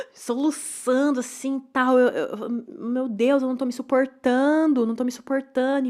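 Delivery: a touch of sobbing, voice lifted and pushed; reliving arriving at therapy in tears; sobbing retold. To therapist, mildly retold sobbing. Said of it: "cheguei assim chorando".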